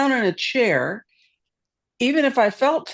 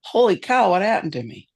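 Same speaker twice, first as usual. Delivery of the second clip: retold amazement. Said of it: "one day I went".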